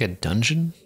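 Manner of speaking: ordinary delivery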